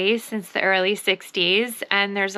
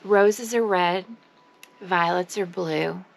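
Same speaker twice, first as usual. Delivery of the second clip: mock-solemn ode; 2 semitones lower than usual. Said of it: "This is my ode to Heloise".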